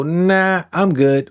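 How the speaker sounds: a breezy "Nah" tossed up high, then a casual "I'm good"; mock casual turning someone away; dismissive brush-off. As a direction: wave them off lightly. Brushing off a new partner.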